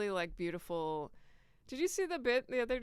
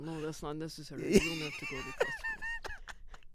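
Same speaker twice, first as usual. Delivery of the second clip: put-on French accent. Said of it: "French accent is".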